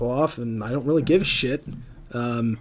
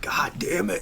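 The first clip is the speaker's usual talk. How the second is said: breathy whisper, voiceless and under the breath; whispered curse; 5 semitones higher, 5 dB quieter, slower than usual. Retold or imitated. Caught asleep on watch, he whispers a curse to himself. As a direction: curse it in a hushed whisper to yourself. Muttering his own frustration.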